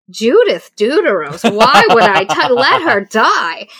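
loud, high, slow mocking laugh-through; hammed-up dismissive sneer; scoffing. Ianthe scoffing at sister.

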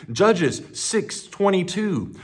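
usual speaking voice

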